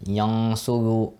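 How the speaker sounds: yang suru with the ghunna held in the nose; ghunna nasal sound. Shown as a demonstration. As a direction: let yang suru hum through the nose, slowly. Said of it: "have a ghunna sound".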